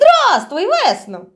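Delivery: merry, cheerful voice. A man opens the door and greets the girl who rang: cheerful greeting. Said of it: "весело промовив він".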